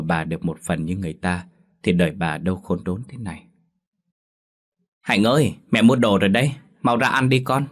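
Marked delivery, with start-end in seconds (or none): 5.0-7.7 louder call through the house. Acted. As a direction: call her child to come eat. Mother calls daughter to eat. (mẹ gọi to con ra ăn)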